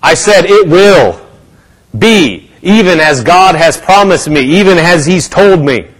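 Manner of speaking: firm, emphatic declaration of faith; bold declaration. Acted. Believer standing up to answer the devil, bold declaration. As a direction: proclaim it boldly, word by word. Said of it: "That's when we get up and say".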